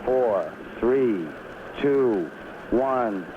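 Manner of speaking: loudspeaker launch announcement; launch control announcer. Real, not acted.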